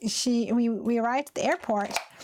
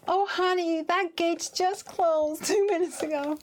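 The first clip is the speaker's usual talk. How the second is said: sympathetic agent; 8 semitones higher than usual. Retold or imitated. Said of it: "She was like".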